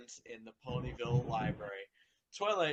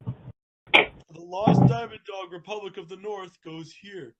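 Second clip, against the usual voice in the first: Spike voice; 7 semitones higher, 10 dB louder than usual. Acted. Reading Spike's lines aloud to the group, in a lightly voiced dragon tone. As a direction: read it as young Spike. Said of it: "I will be playing the role of Spike".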